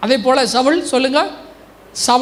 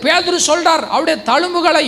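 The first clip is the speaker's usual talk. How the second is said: raised, urgent preacher voice; fervent preaching; 3 semitones higher than usual. Real, not acted. Preacher proclaiming healing to the congregation, fervent preaching.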